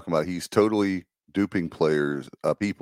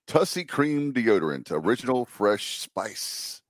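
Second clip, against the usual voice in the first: playful ad read, drawing out the last words; mock sponsor read; 3 semitones higher than usual. Co-host plugging deodorant for a laugh, mock ad read. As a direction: read it like a tongue-in-cheek radio sponsor plug.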